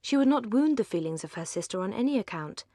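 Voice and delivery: usual speaking voice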